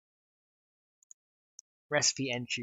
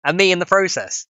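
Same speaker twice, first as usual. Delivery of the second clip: much higher, louder outraged rant; high indignant rant; 5 semitones higher, 5 dB louder than usual. Retold or imitated. Telling chat about the shirtless man: high indignant rant. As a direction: rant in disbelief at him. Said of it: "indignant retelling".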